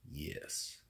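breathy whispered yes. Real, not acted. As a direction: whisper it conspiratorially. Secret answer to a question.

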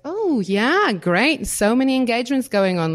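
high, loud, fast fake cheer; sarcastic mock enthusiasm. Mocking engagement posts on Facebook, sarcastic fake cheer. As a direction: gush over the engagements with obvious sarcasm.

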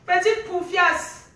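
drawn out slowly, stress on petite; slow mocking insult. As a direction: spell out each syllable of Petite poufiasse with contempt. Rant, insult repeated slowly. (insulte lente et appuyée)

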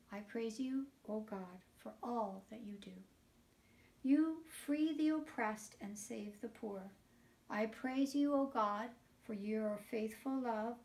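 rhythmic psalm response, each "I praise you" lifted; psalm recitation. Acted. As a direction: lead the children in the repeated response.

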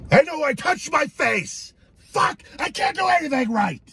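frustrated outburst. Real, not acted. Self-scolding outburst.

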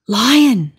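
loud startled gasp of a name; gasped alarm. Acted. Giraffe spotting the lion, loud startled gasp. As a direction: blurt it out in fright. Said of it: "she gasped".

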